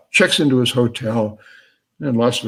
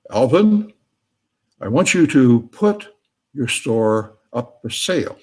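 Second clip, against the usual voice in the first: lightly acted booming voice, louder at first; raised, commanding mock-boom easing off; 3 semitones higher, 4 dB louder than usual. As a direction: call out to Alvin in a mildly booming voice. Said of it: "he hears a booming voice".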